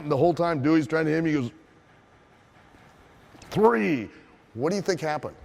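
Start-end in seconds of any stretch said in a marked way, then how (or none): 3.5-4.1 high, loud final count; raised voice falling off at the end; referee's count. Retold or imitated. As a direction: call it out like a ring ref.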